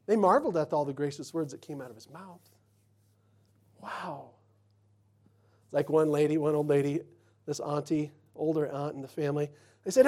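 ordinary talk

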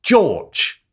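very high, slow hammed-up Cockney; Cockney accent. Shown as a demonstration. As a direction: loudly drawl it as a mock Cockney caller. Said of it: "in a Cockney accent".

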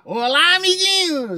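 put-on high squeaky kids' host greeting; Neto impression. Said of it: "o Neto eu posso imitar".

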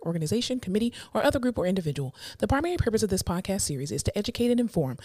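brisk, even podcast disclaimer; disclaimer read. Acted.

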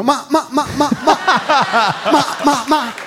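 very high squeaky repeated ma; high squeaky mimicry. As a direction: bleat the ma sounds high. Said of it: "pensa alle persone ... che fanno".

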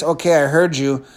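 resigned, unenthused reply; lukewarm acceptance. Acted. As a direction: go along with it without much conviction. Unconvinced listener beside pumped-up one.

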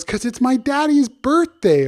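high-pitched storybook animal voice; high, lively children's story voice; monkey character voice. Acted. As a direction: explain it like a little cartoon animal, high and emphatic. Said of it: "He goes".

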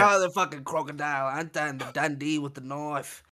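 exaggerated Australian vowels; Australian accent. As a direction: put on a broad Aussie twang. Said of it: "my Australian accent's so fire".

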